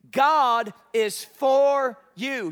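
loud, slow call for the room to repeat; leading the congregation. Acted. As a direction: lead the crowd in a big shout. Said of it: "Say it with me".

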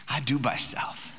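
soft, slow, lightly voiced toddler; low-key little-kid answer, drawn out; imitating pleased toddler. Toddler caught on the counter answers dad, softly imitated. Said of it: "looked at me with the biggest smile".

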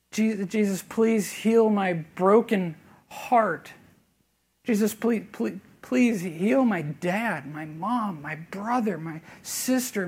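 soft, slow, aching prayer, one plea after another; hushed prayer at a bedside; quiet pleading prayer. Retold or imitated. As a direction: beg gently and slowly, almost breaking. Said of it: "pleading and imploring and begging".

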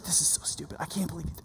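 imitated disgusted grumble, very low in volume; eye-rolling disbelief. Outfished son reacting to his sister, eye-rolling grumble. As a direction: grumble it under your breath, nearly voiceless. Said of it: "He's rolling them so hard".

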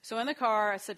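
normal talking voice

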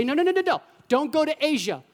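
rapid-fire string of no's, high and loud; emphatic refusal. Acted. Preacher voicing God stopping the missionaries, emphatic refusal. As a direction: cut them off, high and insistent. Acts God forbidding the trip.

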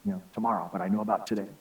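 faint, soft and frail; weak dying man's voice. Retold or imitated. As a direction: barely get the words out, worn down. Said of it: "in a very weak voice".

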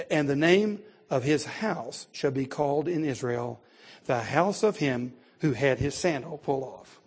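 measured, emphatic Bible reading; formal pulpit reading with weighted key words; scripture reading. Acted. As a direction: read the law aloud to a congregation. Reads scripture aloud to congregation.

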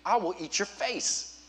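hammed-up grouchy refusal, slowing at the end; mock angry child. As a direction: pretend to be a cross kid fending off help. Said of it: "our reaction is the same as Wyatt's".

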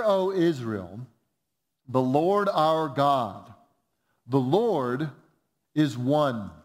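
slow, measured reading with long pauses; solemn scripture reading. Acted. Preacher reading Jesus' answer to church, solemn and measured. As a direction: proclaim each phrase deliberately, stretching the key words. Reads the Bible verse aloud.

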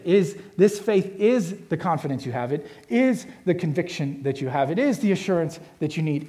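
repeated, insistent weight on "is"; stress on IS. Shown as a demonstration. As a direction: hit every "is" hard. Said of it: "highlight and circle the word is".

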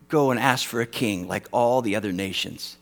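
mock-stern divine rebuke; lightly voiced scolding God; half-playful thundering God; imagined indignant God. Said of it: "I would have said this".

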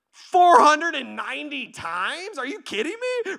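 stunned apostle yelping in protest; incredulous shout. Acted. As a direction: balk loudly at an outrageous number. Apostles' shocked reaction to the number.

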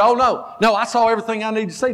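quick, eager coach waving it off; excited coach. Retold or imitated. Coach telling the pastor he has seen enough, eager and fast. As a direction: rattle it off like a wound-up coach. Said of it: "pill that could calm down his just excitement and energy".

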